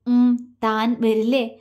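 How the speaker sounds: slow and gentle, coaxing; a slow, tender plea for her to come; soft gentle question. Acted. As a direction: ask her softly, taking your time. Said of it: "അവൻ മൃദുവായി ചോദിച്ചു".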